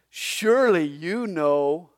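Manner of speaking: dry, mocking slow "Surely you know"; sarcastic. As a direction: let the sarcasm drip slowly. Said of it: "God even gets sarcastic".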